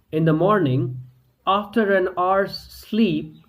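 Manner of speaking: plain reading voice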